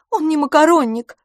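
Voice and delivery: high, loud indignant outcry; crying out. A narrator's reading. The girl defends her lover against the insult, shouting high. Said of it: "вскричала мисс Лафос".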